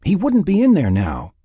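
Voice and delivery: high, emphatic regret; lamenting. A narrator's reading. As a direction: lament it with frustration. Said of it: "Lynn lamented".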